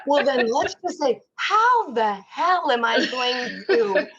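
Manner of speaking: laughing as she swears. Real, not acted. Allowed to cuss, laughs.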